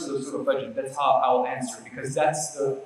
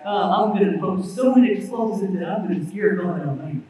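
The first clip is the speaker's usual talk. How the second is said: hillbilly soldier; 3 semitones higher, 3 dB louder than usual. Retold or imitated. Preacher mocking a soldier's arrogant speech, light hillbilly voice. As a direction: sneer it like a lightly done hick braggart. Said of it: "little hillbilly guy".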